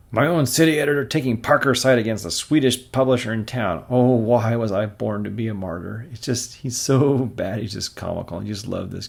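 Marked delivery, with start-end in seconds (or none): 0.1-6.1 self-pitying editor. Acted. Jonah whining about being too generous. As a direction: whine like a put-upon boss.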